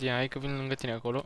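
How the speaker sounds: ordinary delivery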